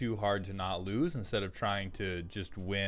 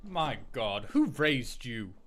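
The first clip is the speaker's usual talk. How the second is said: put-on rich old British snob, pitched high and loud; a pompous old money Brit scolding chat; Caesar Mald; 9 semitones higher, 4 dB louder than usual. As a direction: sneer at the poor peasant like a haughty aristocrat. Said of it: "Caesar Mald, which is an older British man who is very rich and hates poor people".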